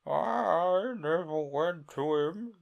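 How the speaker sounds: high, slow sigh. Acted. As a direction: let it fall with a sigh. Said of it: "said with a sigh".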